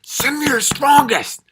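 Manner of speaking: high, slow bellowed boast; mock alpha boast. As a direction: bellow it like a cartoon tough guy. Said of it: "It's like".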